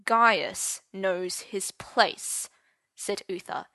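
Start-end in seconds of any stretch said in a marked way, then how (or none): 0.1-2.5 very slow, soft threat; menacing headmaster, slowly; silky menace. Acted. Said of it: "in a softly menacing voice".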